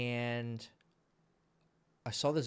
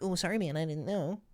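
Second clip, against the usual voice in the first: wimpy apology; 7 semitones higher than usual. Pretend.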